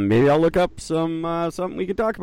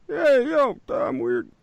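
high, goofy nasal-free weird-guy voice, much higher pitch; Weird Eddie impression; 13 semitones higher, slower than usual. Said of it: "This is my impression of the, this weird guy named Eddie".

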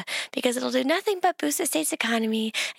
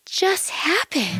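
slow whisper; 4 semitones higher, much slower than usual. Acted. Transformation again, slow whisper.

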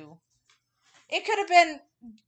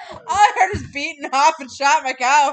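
laughing; 4 semitones higher, 8 dB louder than usual. Real, not acted.

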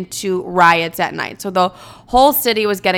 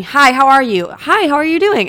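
high, louder mock greeting; pitched-up, emphatic small talk; imitated friendly question; 6 semitones higher, 4 dB louder than usual. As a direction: play up a simple hello. Re-enacts friend's simple question, exasperated.

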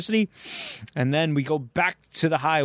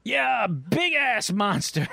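panicked trucker; 5 semitones higher, much slower than usual. Acted. Trucker confirms monster.

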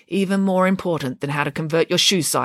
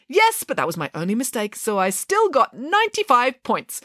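happily; 6 semitones higher than usual. A narrator's reading. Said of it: "explained Nanny Piggins happily".

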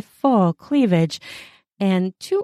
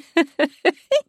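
laugh; 10 semitones higher than usual. Acted.

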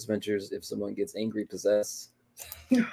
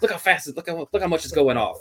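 mock excitement; 8 semitones higher than usual. Mimics excited investigators showing meter.

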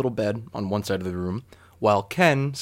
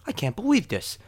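high-pitched imitation of the incredulous roommate; mock disbelief; 8 semitones higher, 3 dB quieter than usual. Roommate talking to himself in bed, mock disbelief. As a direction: play his disbelief in a high put-on voice.

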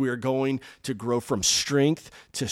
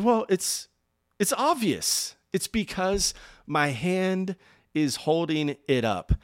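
Reinhard Bonnke; 4 dB louder, slower than usual. Retold or imitated. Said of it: "he says in his accent".

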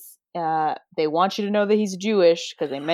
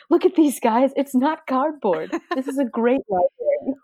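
excited Owl Eyes; 7 semitones higher than usual. Retold or imitated. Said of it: "'cause he's like".

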